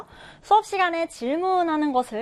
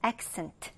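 "accent" stressed on its first syllable, AC-cent; 5 semitones lower, 11 dB quieter than usual. Shown as a demonstration. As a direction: hit the start of "accent". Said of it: "첫 음절에 강세를 두고".

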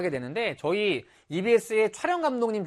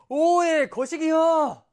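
high, loud Jeolla dialect outburst; mock hatred; 7 semitones higher, 4 dB louder, much slower than usual. Shown as a demonstration. Teacher shows how dialect says I hate you, mock hateful. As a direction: throw it out as hammed-up loathing. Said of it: "널 죽도록 미워해".

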